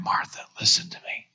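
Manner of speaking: hushed, intimate whisper; Jesus whispering to Martha. Acted. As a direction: lean in and whisper it. Jesus taking her in.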